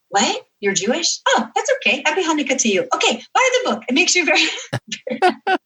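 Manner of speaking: high-pitched mock South American accent. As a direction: imitate a comic South American mascot, breaking into laughter. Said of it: "doing this funny South American accent".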